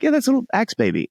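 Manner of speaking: brushing it off, quick and high, like it's nothing; a breezy, high dismissal of the oddity; casual mock shrug. Answering the spouse-to-be about the axe baby, breezy mock shrug. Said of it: "And you're like".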